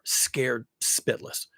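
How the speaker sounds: slow breathy whisper. Retold or imitated. To viewers about AI developers, a slow whisper. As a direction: hush it out, slowly. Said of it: "people developing AI".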